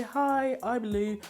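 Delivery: normal talking voice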